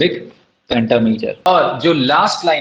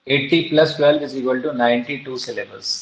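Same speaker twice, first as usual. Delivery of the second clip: slow spelled-out sum; 2 semitones lower, much slower than usual. Shown as a demonstration. Teacher works out the sum aloud.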